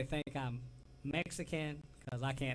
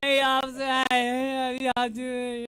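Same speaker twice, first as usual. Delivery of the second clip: higher, louder hammed-up Southern accent; loud, high Southern hello to the border guard; 11 semitones higher, 13 dB louder, much slower than usual. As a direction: play the folksy Southerner greeting the officer. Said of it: "hear that southern accent come out".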